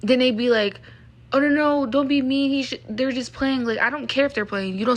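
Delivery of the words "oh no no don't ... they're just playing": a bit louder, airy brush-off; mock dismissive. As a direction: imitate them laughing it off. People excusing harassers, mocked.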